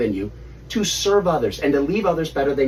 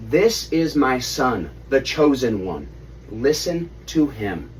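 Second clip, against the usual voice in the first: slow, solemn proclamation; lightly voiced booming God, drawn out; voice from heaven; slower than usual. Voice from the cloud.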